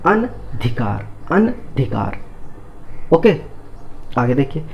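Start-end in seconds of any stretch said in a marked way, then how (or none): 0.1-2.2 slow careful word. Shown as a demonstration. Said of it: "तो ये क्या बन गया".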